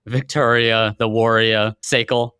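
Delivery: light Boston accent, warrior as wor-ee-ah; Boston accent with the r dropped. Shown as a demonstration. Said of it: "if I say it with a Boston accent".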